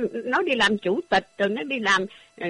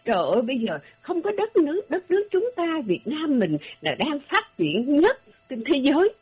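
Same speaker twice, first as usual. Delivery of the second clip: mocking the singer's gushing praise, half-laughing; lightly voiced proud singer, laughing through it; mock boastful exclaiming; 5 semitones higher than usual. Host mocks singer bragging about Vietnam, half-laughing exclaim. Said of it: "nó la lên".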